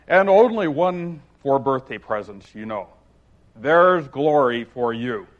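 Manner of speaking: hearty, self-pleased Humpty voice; gaily. Acted. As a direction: boom it out cheerfully as a pompous egg. Humpty voice held.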